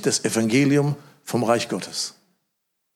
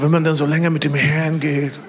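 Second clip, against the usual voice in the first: mock pious lady; 3 semitones higher, 3 dB louder than usual. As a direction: repeat her pious phrase, mocking. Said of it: "Sagt sie".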